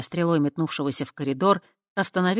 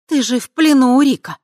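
taunting cry; 9 semitones higher, 12 dB louder than usual. Acted. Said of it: "жёстко повторила".

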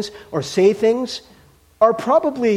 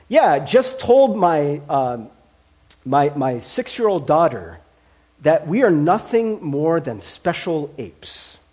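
quoting the post; 3 semitones lower, slower than usual. Retold or imitated. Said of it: "his status update was".

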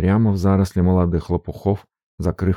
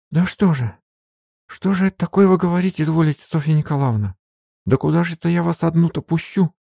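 much higher, fast, tumbling protest; flustered mumbling maid; 11 semitones higher than usual. Acted. Maid Marfa protesting to her mistress, high and fast. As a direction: rattle it off in a panic. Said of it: "бормотала Марфа".

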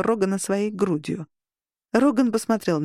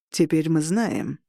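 slow, cold and lower; ice-cold calm menace; icy voice; 3 semitones lower, slower than usual. Acted. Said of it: "ледяным голосом произнёс".

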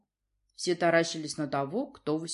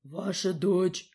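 slow, solemn announcement of the prince; a guard bear formally presents the ruler; announcing herald bear; much slower than usual. A narrator's reading. Guard bear formally announcing the prince. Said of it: "сообщил черношёрстный медведь".

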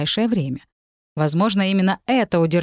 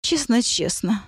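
pixie; 4 semitones higher than usual. Acted. Fairy promising, plaintive.

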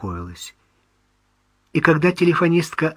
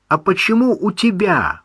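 indignant; 8 semitones higher, 4 dB louder than usual. Acted. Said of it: "возмутился Левашов".

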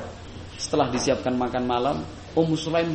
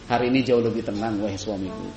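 calm and smiling; 5 semitones lower than usual. Shown as a demonstration. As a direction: reassure the husband with a smile. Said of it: "Sambil senyum, sambil senang".

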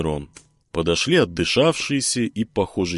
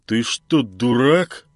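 louder, higher angry outburst; snapping; 4 semitones higher, 4 dB louder, much slower than usual. Acted. Genka snaps at cheerful Filin, angry. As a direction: snap at him, losing your temper. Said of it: "сорвался Стукин".

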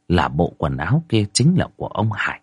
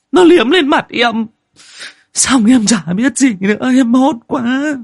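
much higher, louder, panicked woman's voice; frightened woman telling; 12 semitones higher, 5 dB louder than usual. Acted. Wife recounting the ghost to her husband, high frightened voice. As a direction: gabble out the ghost story still shaking with fear, near tears at the worst part. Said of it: "chị Giang vẫn cứ run rẩy kể".

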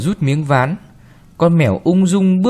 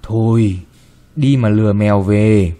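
gently; 4 semitones lower than usual. Acted. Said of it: "Bà dịu dàng nói".

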